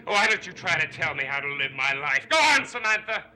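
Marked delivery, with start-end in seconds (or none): 2.3-3.2 high, loud taunt. Acted. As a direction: goad her on. Taunting his sister.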